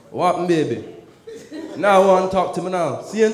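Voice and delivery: put-on Jamaican accent; lightly imitated Jamaican patois. Comic sweet-talking her as a would-be Jamaican, put-on Jamaican accent. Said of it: "decided to speak like them".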